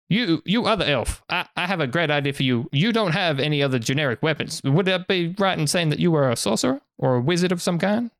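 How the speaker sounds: lightly voiced merchant, lively sales pitch; salesman merchant. Merchant sweetening a cloak deal for customers, lightly voiced pitch. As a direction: pitch it like an eager market trader.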